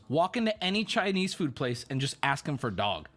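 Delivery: low, lightly imitated Chinese-accented driver. Driver sending passengers to a restaurant, Chinese accent. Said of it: "keep in mind, heavy Chinese accent".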